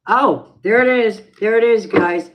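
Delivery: high and loud, delighted it's on; loud happy cry of recognition; excited. Real, not acted. Song she wanted starts playing.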